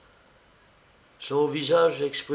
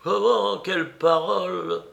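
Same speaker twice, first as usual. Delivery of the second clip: high, louder indignant comeback; sharp retort; 7 semitones higher, 3 dB louder than usual. A narrator's reading. Old lady answering her niece, lively retort. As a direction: retort briskly, pitched well up. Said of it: "reprit vivement la vieille dame".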